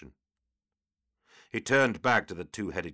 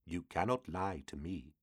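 ominous demon speaking prophecy; 7 dB quieter than usual. A narrator's reading.

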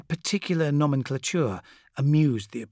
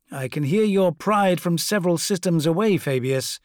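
Fulgrim voice; 5 semitones higher, 5 dB louder than usual. Acted.

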